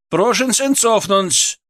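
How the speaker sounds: officer's call to step back; policeman's order. A narrator's reading.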